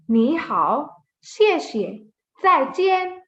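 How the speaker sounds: greetings read briskly with shorter gaps. Shown as a demonstration. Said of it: "we'll read it faster".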